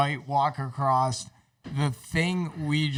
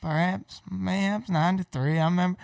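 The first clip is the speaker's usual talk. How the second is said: put-on Southern accent. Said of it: "he's even talks like".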